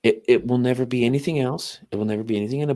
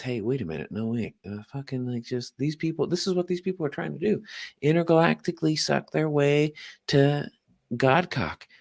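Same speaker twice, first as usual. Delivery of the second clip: a loose imitation of a ranting comedian, rising and speeding to a higher pitch; lightly voiced rant that climbs higher and faster at the end; Tim Dillon impression; 4 semitones higher than usual. Imitating Tim Dillon for a friend, loose ranting impression. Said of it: "he talks like this".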